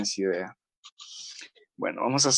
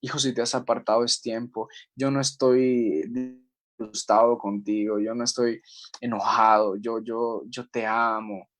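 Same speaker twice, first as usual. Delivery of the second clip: tender voice of Jesus; 3 semitones lower than usual. Pretend. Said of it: "es Jesús quien te está hablando y te está diciendo".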